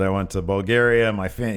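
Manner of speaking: lightly faked Arnold-style Austrian accent; half-hearted Austrian accent for a foreign wrestler. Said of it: "it's Austrian. Arnold".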